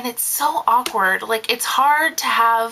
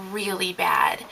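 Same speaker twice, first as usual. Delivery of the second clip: whispered emphasis; 4 semitones lower, 5 dB quieter, slower than usual. Real, not acted. Nanny confiding the bad jobs in a whisper. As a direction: drop to a whisper on really bad.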